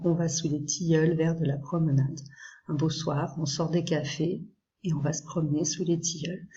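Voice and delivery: lightly recited verse, measured by the line; poem reading. Acted. Teacher reads Rimbaud's very light poem to students, lightly recited. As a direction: read the poem aloud with gentle lilt.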